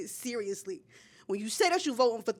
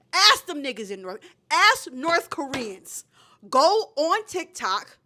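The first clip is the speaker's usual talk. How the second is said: louder and slower, pressing each command; fired-up urging; 3 semitones higher, 6 dB louder, slower than usual. Real, not acted. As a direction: hammer home the instructions. Passionate urging about North Korea.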